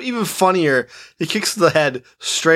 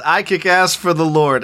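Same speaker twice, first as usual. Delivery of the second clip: put-on deadpan, without putting on the accent; deadpan movie quote; 3 semitones higher than usual. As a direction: deliver the priest's line deadpan. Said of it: "I'm just gonna deadpan it".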